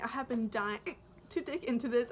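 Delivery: hiccup breaking the line; talking through hiccups. Real, not acted. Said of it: "I have the hiccups and it's so annoying".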